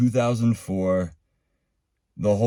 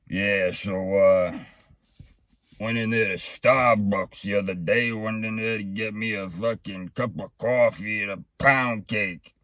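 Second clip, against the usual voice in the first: a lightly voiced gruff Brooklyn guy griping about coffee; mild impression of a Brooklyn guy on a webcam rant; Brooklyn ranter voice. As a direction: slide into the webcam ranter, only a touch put on. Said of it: "That was the whole rant".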